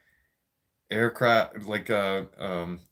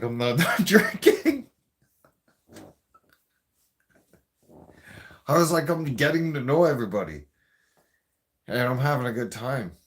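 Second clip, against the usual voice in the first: put-on loud drunk protest; 3 semitones higher, 6 dB louder than usual. Drunk husband pleading with his wife to stay, loud and laughing.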